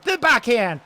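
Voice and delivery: excited shot call. Acted. Backhand shot in play-by-play.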